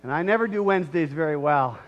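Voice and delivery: loud, hammed-up excuse-making; mocking a sinner minimizing their fault. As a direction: justify yourself, laying it on thick. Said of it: "we try to minimize".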